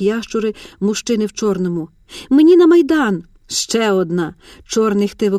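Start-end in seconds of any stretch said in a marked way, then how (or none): 2.3-3.2 high, loud insistent cry; urgent shout. A narrator's reading. Mar'yana shouting at the guard blocking her, loud urgent cry. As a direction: push past them with a loud demand.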